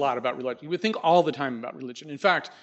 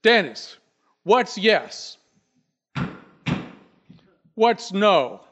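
higher, louder calls with long waits between; Snowbird calling out; 6 semitones higher, 4 dB louder, much slower than usual. Acted. Snowbird calling his dead friend Dennis, higher and louder. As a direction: ask the ghost earnestly, leaving long pauses. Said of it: "And Snowbird says".

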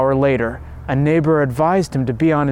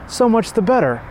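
lightly exclaimed, pitched higher; mild exclamation; 8 semitones higher than usual. A narrator's reading. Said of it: "Don Bosco exclaimed".

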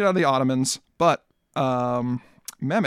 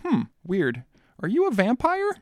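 mock suspicious villagers; 5 semitones higher than usual. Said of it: "They're like".

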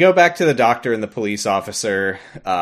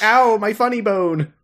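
much higher, yelping in pain; squeaky ouch; 10 semitones higher than usual. Retold or imitated. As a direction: yelp like a hurt clown. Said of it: "and he's like".

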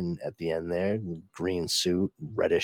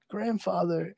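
mock dying plea; 8 semitones higher than usual. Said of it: "as Kal-El's dying".

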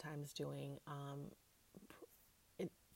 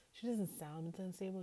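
"doesn't" pushed higher and louder; stress on doesn't; 4 semitones higher, 4 dB louder than usual. Real, not acted. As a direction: lean on "doesn't" to correct. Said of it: "you sound mentally unstable".

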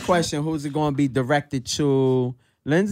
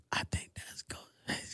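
hushed, breathless whisper; awed whisper; 18 dB quieter than usual. Retold or imitated. Telling his friend in awe, whispered. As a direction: whisper it like you can't believe your eyes. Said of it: "I was so shook".

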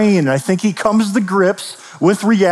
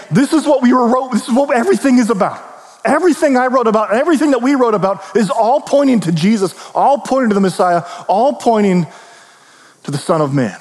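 higher and faster, building testimony; excited proclamation; 5 semitones higher than usual. Acted. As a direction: pour it out like a prophet's revelation. Prophets say all points to Jesus.

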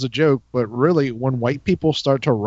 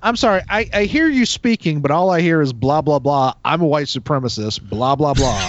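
mocking blah blah. Dismissive mock of friend's talk.

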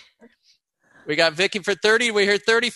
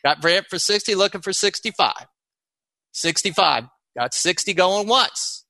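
auctioneer; 3 semitones lower than usual. Acted. Slow auction close.

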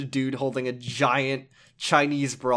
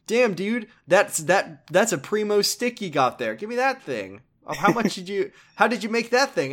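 impressed thug; 6 semitones higher, 3 dB louder than usual. Retold or imitated. Thug admiring the stick.

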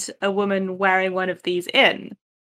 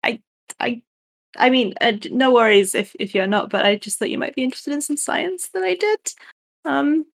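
really unsure of himself; 3 semitones higher than usual. Retold or imitated. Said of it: "you just made him sound just, like, really unsure of himself".

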